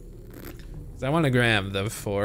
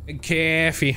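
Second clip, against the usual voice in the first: imitating his coffee; 4 semitones higher, slower than usual. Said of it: "why he said it like that".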